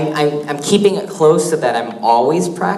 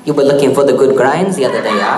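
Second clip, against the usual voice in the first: quick, loud attempt at a pidgin accent; imitating the local teacher, laughing; tourist's bad Hawaiian pidgin; mock Hawaiian pidgin; 4 dB louder, faster than usual. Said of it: "I'm really bad with accents".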